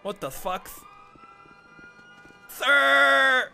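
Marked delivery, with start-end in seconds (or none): 2.5-3.5 loud drawn-out cry; desperate yell. Acted. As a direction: call out in panic. Begging prisoner calls out.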